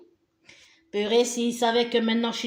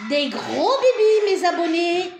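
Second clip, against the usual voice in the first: affectionate; 4 semitones higher, 4 dB louder than usual. Real, not acted. Blowing kisses to subscribers.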